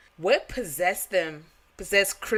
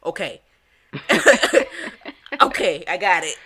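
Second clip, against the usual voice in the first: nervous compliance; 6 dB louder than usual. Retold or imitated. Answering mom's stern text.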